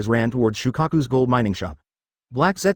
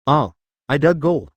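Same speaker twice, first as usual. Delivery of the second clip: excited; 2 semitones higher, 3 dB louder than usual. Acted. Child finds gold, excited.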